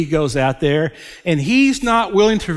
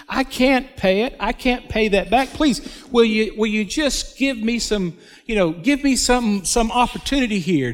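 high pleading servant's voice, voice raised up high; begging servant; 6 semitones higher than usual. Acted. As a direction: beg for mercy on your knees, pitched up high. Servant begging master for mercy.

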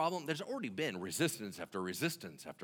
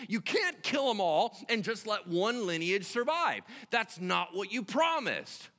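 high, pressing appeal; acted plea with punched key words; insistent pleading; 10 semitones higher, 5 dB louder than usual. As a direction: argue the case, pitched up. Moses pleading with God.

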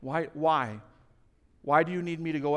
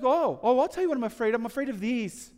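put-on higher and louder, a child bursting to tell; eager little boy; 7 semitones higher, 4 dB louder than usual. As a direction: mimic the son's eager rush of words. Son eagerly listing fears.

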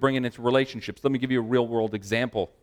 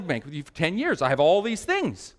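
indignant complaint; 4 semitones higher than usual. Retold or imitated. Loyal customer argues with bank manager, indignant complaint. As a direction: pitch climbing through a retold protest.

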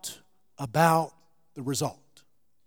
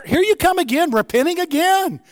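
higher, exasperated sigh of a voice; preacher voicing a fed-up God, higher; mock weary God; 9 semitones higher, 5 dB louder than usual. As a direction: roll eyes as an impatient God.

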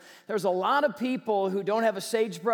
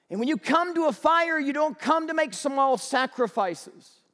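angry firefighter; 3 semitones higher than usual. Acted. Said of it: "the firefighter got angry".

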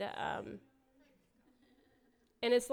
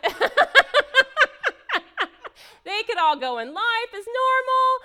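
much higher and louder, laughing through the words; 17 dB louder than usual. Real, not acted. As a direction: laugh hard and keep talking.

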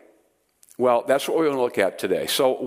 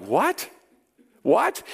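mock baffled "What?", the second one much higher; the crowd murmurs back in disbelief; imitating a baffled crowd; 8 semitones higher than usual. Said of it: "there was this murmur ... It's like".

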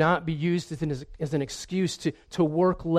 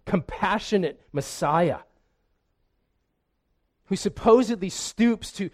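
indignant retort; 3 semitones higher than usual. Pretend. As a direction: throw his words back at him, building to a peak then cooling. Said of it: "turned around and said".

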